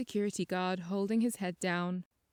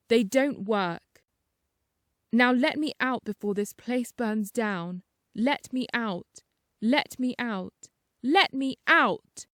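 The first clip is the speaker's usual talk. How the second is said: defiant, rising to a louder plea; Alex demanding the staff let him out, growing louder; building to a scream; 3 dB louder than usual. Acted. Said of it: "screamed Alex".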